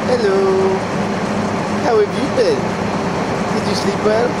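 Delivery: put-on a spooky kid speaking through a grown man; possessed kid voice. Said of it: "And he's like".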